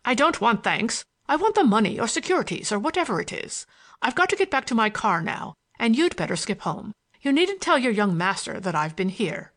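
lightly voiced bossy man brushing off thanks; impatient schemer, brusque. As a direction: give brisk orders to an underling.

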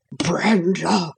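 anguished cry from the heart; a sober dog crying out for his friend; heartfelt cry. A narrator's reading. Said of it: "cry was wrung from the heart".

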